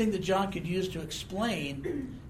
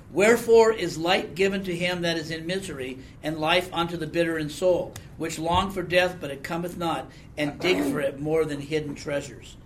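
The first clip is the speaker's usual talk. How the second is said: louder, solemn King James reading; scripture reading; 4 dB louder than usual. Acted. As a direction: proclaim the old words with weight. Reads Job passage aloud.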